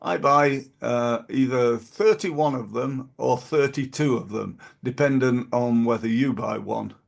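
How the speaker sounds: put-on a light, self-conscious go at a Chinese accent; a hint of a Chinese accent, not quite landed; friend's Chinese accent, lightly imitated; imitating a Chinese accent. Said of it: "he did talk like that with a Chinese accent".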